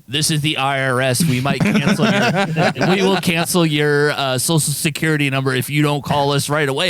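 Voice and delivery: stiff robotic scam call voice. Retold or imitated. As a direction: read it like an automated robocall. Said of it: "robotic voice going".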